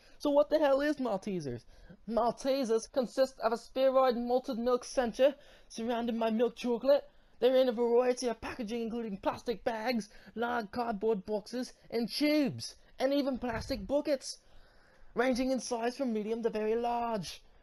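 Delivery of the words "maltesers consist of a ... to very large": horrible, bad, fake British accent. Talking about a candy Mars started promoting in the US, in a horrible British accent. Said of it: "my horrible British accent".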